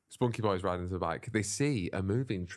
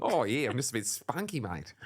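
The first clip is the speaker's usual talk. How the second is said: put-on spunky boy voice; 3 semitones higher than usual. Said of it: "Just extra spunky".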